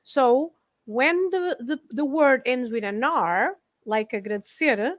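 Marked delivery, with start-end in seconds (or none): 4.1-4.9 "agradecer" stressed on its last syllable; stress on the end. Shown as a demonstration. Teacher explaining verbs ending in R, "agradecer" with final stress. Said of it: "we stress the end".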